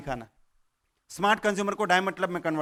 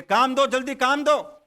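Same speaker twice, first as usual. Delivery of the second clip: slow, louder, furious hammed-up ghost; the ghost angrily demands more work; angry ghost demand; 4 semitones higher, 5 dB louder than usual. An angry ghost, slow and loud, demanding work from the farmer. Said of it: "भूत एकदम गुस्से में".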